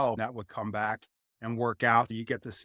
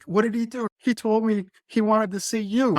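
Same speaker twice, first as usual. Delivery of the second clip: high mock quote voices; 9 semitones higher, 4 dB louder than usual. Retold back-and-forth with crying friend.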